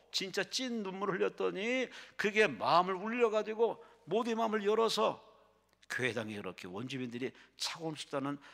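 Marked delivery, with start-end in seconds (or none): 0.1-5.2 high-pitched, swelling sermon delivery; impassioned preaching. Acted. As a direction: drive the story home from the pulpit. Preaches the story's climax. (높은 톤으로 힘주어 설교하듯)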